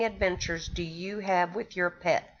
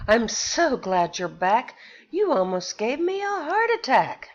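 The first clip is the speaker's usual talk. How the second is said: relieved exclamation; 3 semitones higher than usual. Acted. Pet sitter relieved the iguana came home, gushing. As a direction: gush with relief that the pet is back. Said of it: "she exclaimed".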